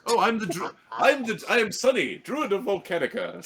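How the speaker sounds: lightly voiced squeaky bat; a small bat announcing itself. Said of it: "says the bat".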